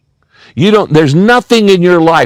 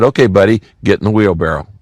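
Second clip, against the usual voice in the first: calm challenge; 5 semitones lower, faster than usual. Acted. Performer calls the admirer's bluff.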